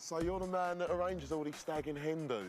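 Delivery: chatty Essex accent; friendly Essex geezer. Real, not acted.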